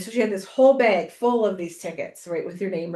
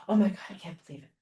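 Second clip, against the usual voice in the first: imitating host; 2 semitones lower, 4 dB quieter, much faster than usual. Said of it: "She goes".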